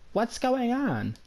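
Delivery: high, slow, drawn-out mom question; mom's alarmed question. Retold or imitated. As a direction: play the alarmed mom finding a cop at the door, high and slow. Mom at the door, upset.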